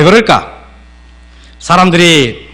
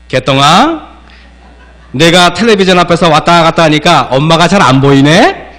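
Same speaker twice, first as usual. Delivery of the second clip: gentle. Shown as a demonstration. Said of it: "엄마가 이렇게 해야 됩니다".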